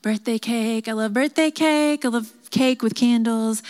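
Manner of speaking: lightly voiced child self-soothing, lifting in pitch; retold little-kid chant to chase off fear; imitating younger self. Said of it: "And I'd be like".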